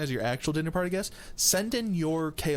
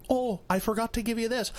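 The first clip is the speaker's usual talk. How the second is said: sly high voice; 8 semitones higher than usual. Retold or imitated. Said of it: "He goes".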